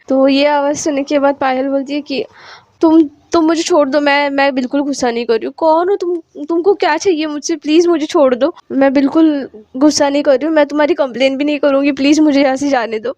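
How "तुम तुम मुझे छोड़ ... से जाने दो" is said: scared pleading. Acted. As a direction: stammer out a panicked plea to be let go. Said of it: "पायल थोड़ी डर गई होती है".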